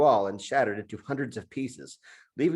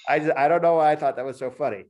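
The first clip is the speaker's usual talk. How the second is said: laughing through the apology; can't hold back a laugh; real laughter; 3 semitones higher, 4 dB louder, faster than usual. Real, not acted. Author laughs at his own scene while reading to the host. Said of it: "I'm laughing at my own".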